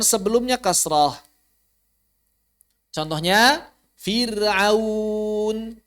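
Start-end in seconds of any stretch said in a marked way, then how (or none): 4.0-5.8 FIR'AUN with a light r after a clear "i", last syllable held; thin r. Shown as a demonstration. Teacher gives an example of ra sukun after kasrah, thin r. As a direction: draw out "Fir'aun", keeping the r thin.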